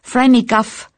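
stammering, tearful. A narrator's reading. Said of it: "stammelte sie weinend".

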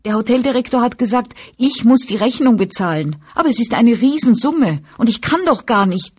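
put-on high whine, helpless girl complaining; whining voice. A narrator's reading. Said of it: "bestätigte sie mit Jammerstimme".

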